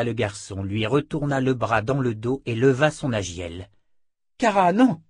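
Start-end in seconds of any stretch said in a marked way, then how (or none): 4.4-5.0 sharp shout, higher and louder. A narrator's reading. Callan shouting to stop Kara, loud. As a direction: cry out to stop her. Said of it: "cria Callan".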